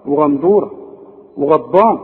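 وغندورة and وغضبان with a dark "gha"; correct heavy Ghayn. Shown as a demonstration. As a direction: back the vowel after each غ. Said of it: "الغين في القرآن غا".

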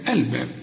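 الباب with a light, thin b. Shown as a demonstration. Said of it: "نطق الباء هنا مرقق".

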